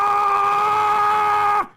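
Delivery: high, loud outraged scream; outraged shriek. Real, not acted. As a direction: shriek in disbelief. Outraged at the story.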